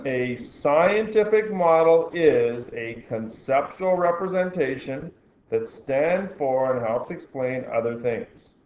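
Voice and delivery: slow, deliberate dictation pace. Shown as a demonstration. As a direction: read it slowly so they can underline. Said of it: "Do you think that should be highlighted?".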